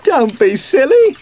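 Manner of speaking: high, loud squeaky scoff; scornful squeak. A narrator's reading. Sweep scoffs at Sooty's magic, squeaking. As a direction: squeak it dismissively. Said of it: "squeaked Sweep".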